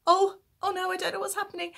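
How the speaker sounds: high, loud mock panic; retold freaking out. Host retelling her reaction to the buzzing phone, mock panic. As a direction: act out a flustered, high-pitched panic. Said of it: "I was properly freaking out".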